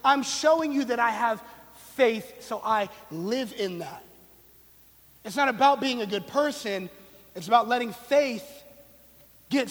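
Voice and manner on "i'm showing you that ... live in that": James talking blunt. Retold or imitated. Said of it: "He's saying".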